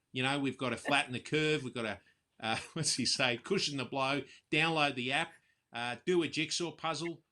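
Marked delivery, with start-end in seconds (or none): 0.1-2.0 mild mock of a dull leader's briefing; a hint of a bland press conference voice; politician impression. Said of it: "his voice isn't really, as exciting". 3.4-7.2 lightly voiced politician, a little higher; a hint of a cheery official slogan voice; mild mock briefing; politician impression. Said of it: "his voice isn't really, as exciting".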